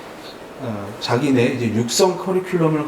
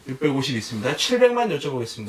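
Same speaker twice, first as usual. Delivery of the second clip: lively raised auction calling; auctioneer call; 2 semitones higher than usual. Shown as a demonstration. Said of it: "시범을 한번 보여드려 볼게요".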